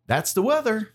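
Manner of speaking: mock newsman closing the weather report; Jesse Walker impression. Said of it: "I can do a pretty good Jesse Walker impression".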